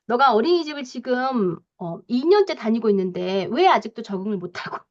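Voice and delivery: mock parental telling-off; admonishing parent. Judge-type parent scolds a child over kindergarten, admonishing. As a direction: reprove a child point by point. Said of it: "이런 식으로 막 훈계를 탁탁".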